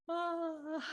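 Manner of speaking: high, drawn-out waking "ah"; carefree waking sigh. Acted. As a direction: imitate a kid getting up without a care. Child getting up late, unbothered.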